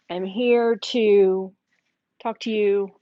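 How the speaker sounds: talking with a mouth full of cookie dough; words pushed round a mouthful of dough. Real, not acted. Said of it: "with my mouth full".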